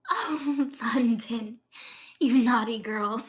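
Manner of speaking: light airy priestess. Acted. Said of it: "speaks in a light and airy voice".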